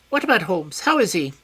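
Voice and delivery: high, loud, sharp query; a suspicious man pouncing on a name; high alert villain voice; high tense question. A narrator's reading. Smith probing about Holmes.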